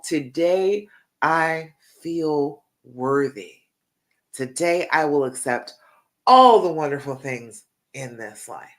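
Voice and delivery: slow, measured affirmation, each phrase set apart; mean every word, leaning firmly on "all"; heartfelt affirmation. Shown as a demonstration. Coach repeating the affirmation for listeners to echo, heartfelt and deliberate. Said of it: "like you mean it with all your heart".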